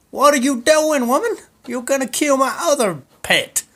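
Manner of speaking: very high, loud mock yell; panicked shout. Husband yelling at wife who threw his pet, very high and loud. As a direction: scream at her to stop. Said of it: "he's like".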